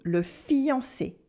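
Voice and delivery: "fiancé" ending in a closed "ay" sound, slowly; French é. Shown as a demonstration. French teacher modelling "le fiancé" for learners. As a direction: stretch the final é of "fiancé". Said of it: "We have e in le fiancé".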